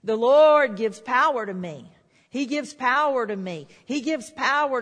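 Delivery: belting out the Lord's promise; loud declaration. Shown as a demonstration. Preacher shouts the confession for the congregation, loud and bold. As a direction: declare it boldly, leaning hard on Lord. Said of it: "You should be saying".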